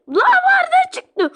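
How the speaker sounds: sharp surprised whisper; a ragdoll whispering in alarm; startled whisper. Acted. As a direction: hiss it out in shock. Ragdoll character suddenly appears.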